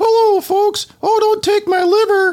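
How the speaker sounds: very high, little cartoon mouse voice. Speaker jokes about mouse experiments, doing a Mickey Mouse voice. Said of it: "because I'm thinking like Mickey Mouse".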